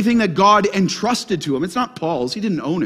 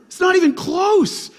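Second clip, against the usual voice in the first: emphatic shout; 10 semitones higher than usual. Acted. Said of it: "preacher emphasis".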